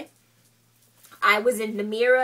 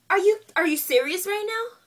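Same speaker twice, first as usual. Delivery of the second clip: high, loud disbelief, repeating herself; incredulous outburst; 9 semitones higher, 3 dB louder than usual. Retold or imitated. She confronts the beautician over her matted hair, in loud, high disbelief. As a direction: demand it in disbelief, pitch jumping up.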